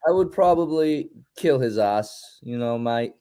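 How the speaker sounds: put-on British accent. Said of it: "give a pick out in a British accent".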